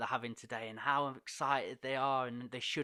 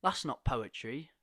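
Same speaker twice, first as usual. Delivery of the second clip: slow, louder, laughing delight; impressed teen praise; 2 semitones higher, 4 dB louder, slower than usual. Retold or imitated. The lad telling the poet his poem was sick. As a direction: let the praise land slowly with a laugh. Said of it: "and he went".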